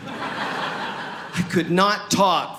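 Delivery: mock laboured slow speech; speech impediment. Comic showing how his German came out, mock speech impediment. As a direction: labour over each word as if speech-impaired. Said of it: "with a severe speech impediment".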